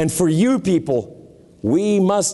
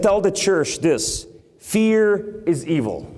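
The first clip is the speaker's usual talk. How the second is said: emphatic preaching; 4 semitones higher than usual. Acted. Preacher warning the church against fear, emphatic preaching. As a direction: preach each phrase with deliberate weight.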